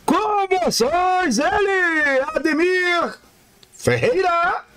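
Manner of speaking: slow, high, drawn-out announcement; announcer intro. Acted. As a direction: present the guest like a stage announcer. Host announces the guest. (apresentação de locutor)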